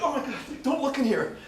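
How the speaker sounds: mock panicked staff. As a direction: hiss a nervous warning, hammed-up. Team panicking in retold scene.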